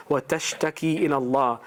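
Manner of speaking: quick, flowing recited chant; Quran recitation. Shown as a demonstration. Preacher reciting the verse about the arguing wife, fast chant. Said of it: "the ayat I wanna read to you".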